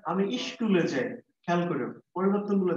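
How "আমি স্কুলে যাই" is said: put-on slow childlike "আমি স্কুলে যাই", ই sound before স্কুল; child's pronunciation. Shown as a demonstration. Teacher showing how a child says "স্কুলে". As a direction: say "স্কুলে" the way a small child does, slowly. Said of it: "সে স্কুল না বলে বলেছে কি?".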